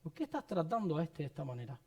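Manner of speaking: quiet, resentful prayer; hushed complaint to God. Retold or imitated. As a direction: murmur the grievance under your breath. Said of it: "yo estaba diciéndole a Dios".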